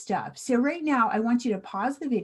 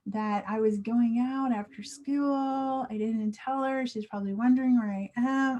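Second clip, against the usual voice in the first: acted worry; 2 semitones higher than usual. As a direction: fret as if you're in trouble with mom. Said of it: "you're in big trouble".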